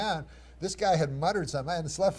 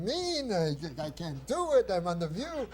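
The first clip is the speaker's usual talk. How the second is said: put-on crazy Jewish accent; 3 semitones higher than usual. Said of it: "I had this crazy Jewish accent in the story".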